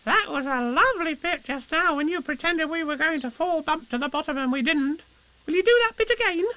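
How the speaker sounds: very high, squeaky, eager little voice; tiny youngster, hopeful and keen. A narrator's reading. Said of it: "he went on hopefully".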